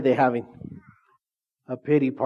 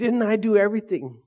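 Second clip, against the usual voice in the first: mock complaining; 4 semitones higher than usual. Voicing disciples' complaints to God.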